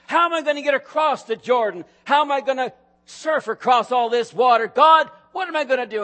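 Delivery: rising to a shout, pleading with God; desperate cry. Acted. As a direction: cry out like a man at the river's edge. Joshua's worried cry, preacher acts.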